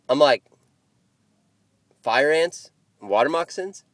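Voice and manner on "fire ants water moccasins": "Fire ants? Water moccasins?" each rising as a separate question; questioning echo. Retold or imitated. Echoes their warning in disbelief.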